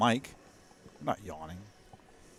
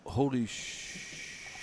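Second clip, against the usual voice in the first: whispered; 8 dB quieter, much slower than usual. Real, not acted. Stunned by a shot.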